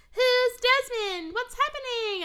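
high, slow and bewildered; confused witch voice. Retold or imitated. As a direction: ask it like a lost, baffled aunt. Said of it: "And she's like".

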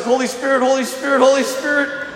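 retold urgent plea. Teammate stuck for words, urgent repeated plea. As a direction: imitate someone frantically praying for words.

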